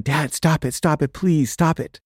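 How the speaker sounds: lightly voiced kid begging dad to stop; pleading child. Son begs dad to stop.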